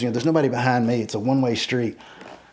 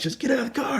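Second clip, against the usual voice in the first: retold yell; 13 semitones higher than usual. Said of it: "He's yelling".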